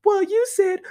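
strained, cartoonish Neanderthal voice; hammed-up woman imitating a dude; mock caveman dude voice. Showing how women impersonate men every time, mock caveman voice. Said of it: "Fred Flintstone caveman Neanderthal shit".

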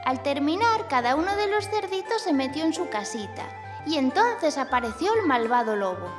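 put-on gentle storytelling for kids; story narration. A narrator's reading. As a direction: read it like a bedtime tale.

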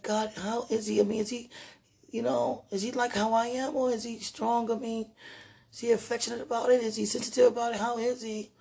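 high worried questioning; high anxious. Retold or imitated. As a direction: pitch up, fretting questions. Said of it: "'Cause I was like".

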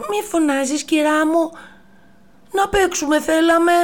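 high, loud little monkey voice; cheeky monkeys. Acted. The little monkeys answering the giraffe, high and loud. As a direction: answer back like mischievous kids. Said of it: "απάντησαν τα πυθικάκια".

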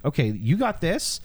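eager. Retold or imitated. Abraham voiced, eager trust.

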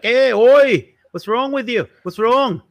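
high, loud Jewish New York scolding; Jewish New York accent. Acted. Local scolding a stranger, Jewish New York accent. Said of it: "Jewish section of New York and you go like".

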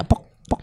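imitated ghost knock. Shown as a demonstration. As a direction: separate short pok noises. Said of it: "karena dia suka bunyinya".

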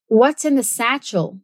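"What's in the satchel?" in clear General American; General American accent. Shown as a demonstration. Teacher repeats the film line in General American. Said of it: "repetir com o General American Accent".

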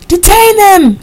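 high, loud command to the guards; barked order. A narrator's reading. Rufus ordering guards to seize the women, loud command. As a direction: bark it as an urgent order. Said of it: "he ordered the guards".

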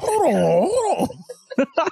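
high, loud excited yell; excited shout. Pretend. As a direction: call it out, hyped. Acting out pull up scene.

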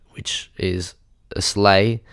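slow breathy whisper; whispered pun. Acted. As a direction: whisper it slowly like a secret. Whispered Christmas pun, then explained.

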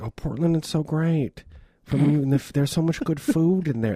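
mock rave about Portland, only lightly voiced; gushing critic voice. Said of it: "this is the voice of the New York Times".

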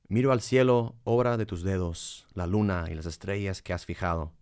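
solemn, reverent psalm reading. Acted. Reads a psalm.

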